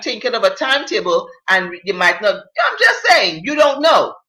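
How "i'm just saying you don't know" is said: emphatic. Real, not acted. Insisting to the letter writer.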